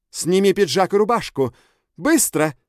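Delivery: loud, high barked command; barked order. A narrator's reading. Bella orders the man to strip, barking loudly. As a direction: bark it like a drill sergeant. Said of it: "гаркнула Белла".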